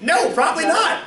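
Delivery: high, laughing retort; mock answer through a laugh; laughing reply. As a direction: laugh off the ad's question.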